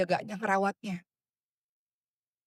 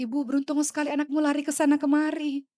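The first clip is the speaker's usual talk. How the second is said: wistful inner words; 5 semitones higher than usual. Retold or imitated. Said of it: "saya katakan dalam hati".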